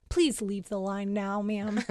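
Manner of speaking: lightly voiced drive-thru worker; mild stern worker. Quoted worker asking her to leave.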